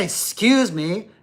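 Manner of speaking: slow, slurred, lazy excuse me. Shown as a demonstration. The speaker mocking lazy kids, slow and slurred. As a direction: let the words smear lazily. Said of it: "Now, don't say".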